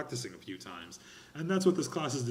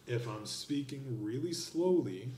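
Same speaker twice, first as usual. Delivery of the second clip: slow speech; slower than usual. Shown as a demonstration. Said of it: "You see how frustrated it is?".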